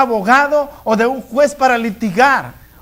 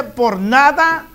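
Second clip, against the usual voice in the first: nada drawn out slowly; slow each word down like a divine command; solemn slowed scripture line; slow, weighty quote of the Lord; much slower than usual. Acted. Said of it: "El Señor te dice".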